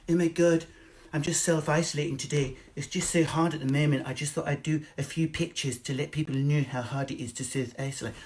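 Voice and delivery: lightly mocking Instagram voice; mocking influencer. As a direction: send up a self-pitying influencer. Mocking influencer posting selfies.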